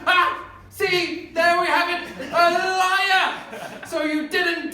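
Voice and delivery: loud, high gotcha; crowing loud and high, caught you out; triumphant accusation. Acted. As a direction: pounce on the catch.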